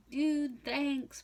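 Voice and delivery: cheery high dude voice; blind father thanking. Retold or imitated.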